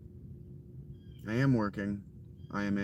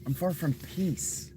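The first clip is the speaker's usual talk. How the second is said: higher mock southern accent; southern accent mimicry, once more; 8 semitones higher than usual. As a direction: repeat it in a teasing southern accent. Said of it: "Even his fucking southern accent".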